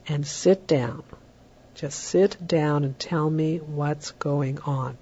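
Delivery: slow, unruffled and quiet; slow calm voice. Shown as a demonstration. Parent calmly tells fighting boys to sit down, slow and quiet. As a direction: settle the room with a slow even tone. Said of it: "you're speaking slowly and quietly and in an unruffled".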